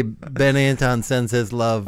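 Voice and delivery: loud, slow comic impersonation of a salesman; loud, hammed-up salesman message; Wade Anderson. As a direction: deliver it big and drawn out, as a caricature. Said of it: "that's a good comedic impersonation".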